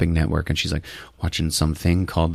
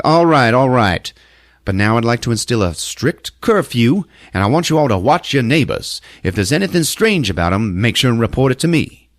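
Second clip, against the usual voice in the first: a hint of a sheriff, pitched up; lightly voiced sheriff; 4 semitones higher than usual. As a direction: address the town meeting as the sheriff, lightly acted. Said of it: "the sheriff is up there like".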